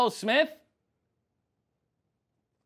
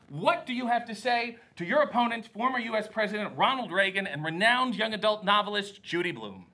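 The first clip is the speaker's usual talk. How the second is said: interviewer voice. Pretend. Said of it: "cut a promo on the fly".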